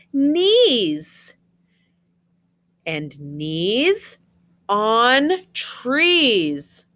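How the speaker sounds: sing-song picture-book reading; reading to children. Acted. Teacher reading Dr. Seuss to her class, sing-song read-aloud. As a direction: read the rhymes to the kids with a bouncy lilt.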